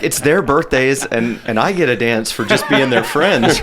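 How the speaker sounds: giggling through a pretend line; laughing mock quote. Friend jokes about a strip club birthday, laughing. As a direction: laugh while playing the joker at the club. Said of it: "I'll be like".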